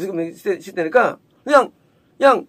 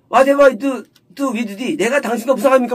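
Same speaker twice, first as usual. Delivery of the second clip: raised-pitch challenge while reading the verse; imitated confrontation; 3 semitones higher than usual. Woman challenging Elijah over her son, mildly confrontational. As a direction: confront him, in a quoting voice. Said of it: "따지는 거예요".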